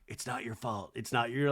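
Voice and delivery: a hushed, tender It's not your fault; soft movie quote. Retold or imitated. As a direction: comfort him softly like in the film. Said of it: "the scene out of Good Will Hunting".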